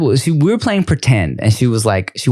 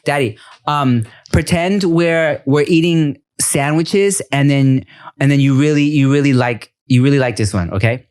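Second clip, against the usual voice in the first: lightly voiced preschooler, halting as she invents; Veda. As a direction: imitate a kid making up a game. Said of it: "So she'll be like this".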